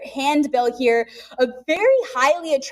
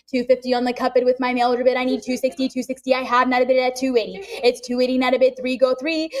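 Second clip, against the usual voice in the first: rapid auction chant; calling bids like an auctioneer; faster than usual. Real, not acted.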